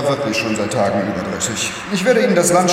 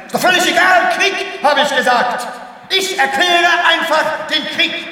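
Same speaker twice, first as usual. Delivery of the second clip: much higher and louder, a ranting scream; furious shout; 3 dB louder than usual. Acted. Director screaming at the rocket pilot to declare war, furious. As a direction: scream the war order as if he has lost his mind.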